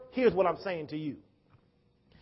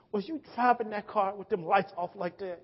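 quiet, restrained scolding; trembling mama; 5 dB quieter than usual. Retold or imitated. Mother asking son about the car lights, trembling voice. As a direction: question your son in a tightly held, hushed voice. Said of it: "Her voice is trembling".

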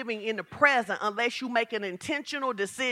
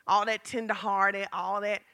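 low-pitched, lingering disdain; disdainful; 4 semitones lower, 3 dB quieter, slower than usual. Real, not acted. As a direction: let disdain for all that tenderness creep in. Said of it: "hear the disdain in my voice".

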